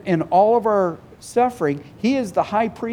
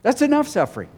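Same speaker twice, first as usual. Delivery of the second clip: voicing the fed-up believer; 4 semitones higher than usual. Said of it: "we come to a point where we go".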